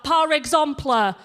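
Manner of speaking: put-on swan in, French with a Leeds accent; broad northern French. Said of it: "she's so northern".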